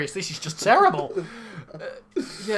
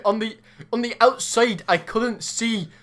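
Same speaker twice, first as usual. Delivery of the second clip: failed Geordie accent; 6 semitones higher than usual. Shown as a demonstration. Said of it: "You're still going Scottish".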